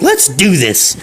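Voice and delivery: high granny battle cry; mock-tough old lady voice; feisty old lady. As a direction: put on a high old woman ready to fight. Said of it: "and she's like".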